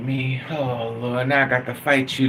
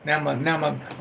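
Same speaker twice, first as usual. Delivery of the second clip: normal talking voice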